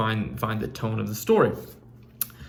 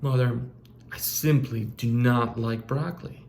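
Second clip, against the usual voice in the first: polite, proper tone. Shown as a demonstration. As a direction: decline it calmly and properly. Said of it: "totally different tone".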